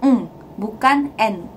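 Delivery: Eng said slowly with a back ng; slow, clear Eng; eng sound. Shown as a demonstration. Teacher explaining the final N, slowly. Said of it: "itu kita bacanya eng".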